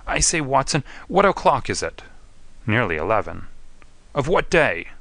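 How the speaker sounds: a rattled addict who has lost days; lightly voiced jittery young man; dazed opium addict. Narrator voices the dazed Whitney.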